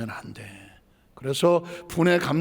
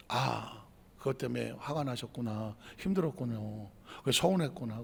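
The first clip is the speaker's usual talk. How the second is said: very soft, low, consoling; sympathetic acknowledgement; 6 semitones lower, 13 dB quieter than usual. Acted. Spouse acknowledging partner's hurt to calm it, tender. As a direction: soothe gently, hushed and understanding. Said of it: "알아주면 속으로 들어".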